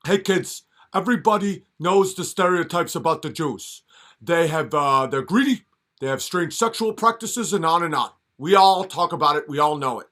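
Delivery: Bernie Sanders. Retold or imitated. Old politician addressing kids, in a lightly mocking lecture. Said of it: "how Bernie Sanders was talking, where he's like".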